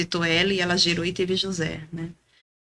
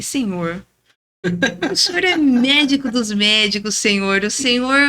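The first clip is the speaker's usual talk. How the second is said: raised, earnest preaching at God. Retold or imitated. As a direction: lecture God like a preacher on a pulpit. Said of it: "eu quis pregar pra Deus". (pregando para Deus, em tom de sermão)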